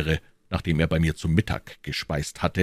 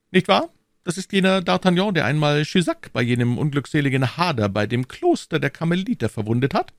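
higher royal voice, firm; the king's voice, raised pitch; 10 semitones higher than usual. A narrator's reading. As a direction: speak as the king, assured. King voiced.

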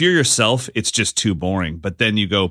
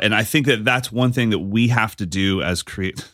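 measured, even presenter delivery; real, unforced podcast voice. Real, not acted. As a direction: make your point like a podcast host. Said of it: "I was just in podcast voice".

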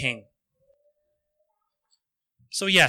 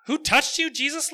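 much higher, disbelieving question; incredulous; 9 semitones higher than usual. A narrator's reading. Friends doubting Jesus in the pressing crowd, incredulous. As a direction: ask it as if he can't be serious. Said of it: "look incredulous".

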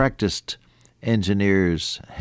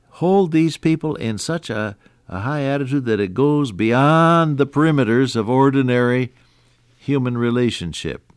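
exalted; 6 semitones higher, 3 dB louder than usual. Acted. Preacher lifts the quoted verse.

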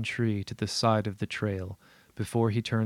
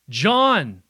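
high, loud scream of a name; distant scream; 8 semitones higher, 10 dB louder than usual. Acted. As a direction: scream the name much higher. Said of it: "my own voice suddenly scream".

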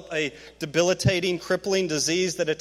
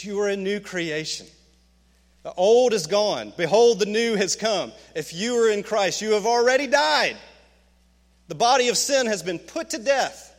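raised, ringing preacher's proclamation; booming voice from heaven; 4 semitones higher, 4 dB louder than usual. Acted. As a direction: boom it out higher and louder. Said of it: "boom to you".

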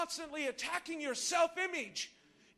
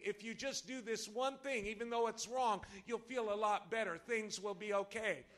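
insinuating; 4 semitones lower than usual. Acted. Enemy tempting a listener to do wrong, insinuating. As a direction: coax gently, like a tempter. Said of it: "the insinuating voice of the enemy".

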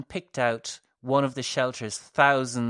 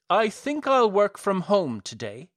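cheery madman; 7 semitones higher, 6 dB louder than usual. A narrator's reading.

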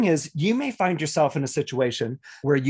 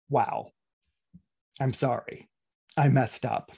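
sincere apology; 3 semitones lower than usual. Shown as a demonstration. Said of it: "as in saying".

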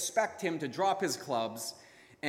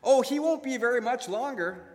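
calm reply; 8 semitones higher, 6 dB louder than usual. Acted. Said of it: "her husband calmly replied".

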